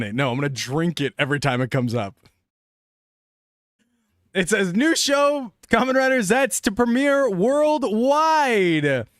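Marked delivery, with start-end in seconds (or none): 4.7-9.1 high, drawn-out headline read; show-premiere hype, pitched up and slow; hyped announcement. Acted. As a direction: announce it big, stretching the last word. Reads out headline as big announcement.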